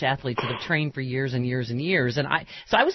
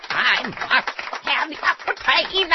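higher, slow theatrical actor voice; Peter O'Toole impression; 10 semitones higher, slower than usual. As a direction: draw out Aquitaine grandly. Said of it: "to use that impression".

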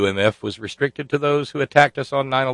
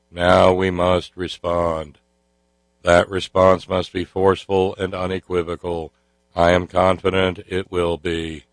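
Senator Kerry monotone. Retold or imitated. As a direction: drone it out like a solemn senator. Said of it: "even with the monotone".

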